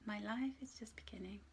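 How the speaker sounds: whispered affirmation. Shown as a demonstration. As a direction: breathe the affirmation as a secret. Repeats affirmation softly.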